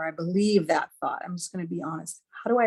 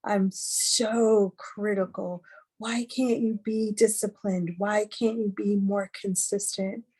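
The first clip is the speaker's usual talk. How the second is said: mild, slow self-scolding, pitched a little up; understated angry inner critic; 2 semitones higher, slower than usual. Retold or imitated. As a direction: scold yourself in exasperation, drawing the words out. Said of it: "I'm angry with myself".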